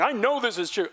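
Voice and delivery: mock overconfident assertion; smug know-it-all claim; dogmatic certainty. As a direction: state it like it can't be questioned. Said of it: "been dogmatic about it".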